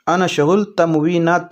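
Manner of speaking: slow "انا شغل تموینات"; slow Arabic demo. Shown as a demonstration. Teacher modelling the Arabic sentence slowly for viewers. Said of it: "عربی میں اس طرح سے بولیں گے".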